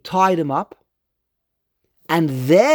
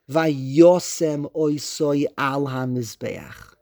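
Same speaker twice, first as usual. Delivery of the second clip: slow verse reading; 3 semitones lower, much slower than usual. Shown as a demonstration. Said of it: "and then it says".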